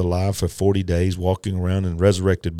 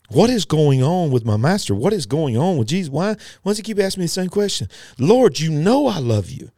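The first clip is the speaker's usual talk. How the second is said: hammed-up, high-pitched panic; Peter freaking out; 7 semitones higher than usual. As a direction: act out bewildered exasperation, pitch climbing. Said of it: "Peter was freaking out".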